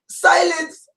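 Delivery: high shouted puppet terrorist voice; high mock-threatening dummy voice; Ahmed puppet voice. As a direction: bark it out like a ventriloquist dummy. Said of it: "then there's Ahmed".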